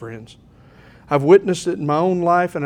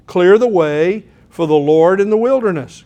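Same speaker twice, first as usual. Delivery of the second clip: proclaiming call; 6 dB louder than usual. Acted. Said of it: "quoted about John the Baptist".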